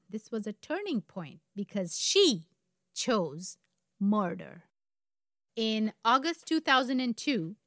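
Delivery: deliberate storyteller with dramatic pauses; story narration. A narrator's reading. Host leading up to the murder, story narration. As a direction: build suspense, setting key words apart.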